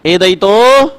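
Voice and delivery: slow chanted sutra, last words drawn out; sutra recitation. Shown as a demonstration. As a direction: chant the rule slowly for dictation. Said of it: "नवा सूत्र लिखें".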